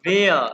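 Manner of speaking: वेया said as VEH-ya, short and loud; German pronunciation. Shown as a demonstration. Teacher answering his own question on how to say wer. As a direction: punch out वेया with a v sound. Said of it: "इसको कैसे pronounce करेंगे".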